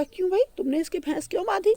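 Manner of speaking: high, fast challenge; quick probing question. Acted. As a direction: press him quickly. Tenali questions the man. (तेज़ और ऊँचे स्वर में सवाल)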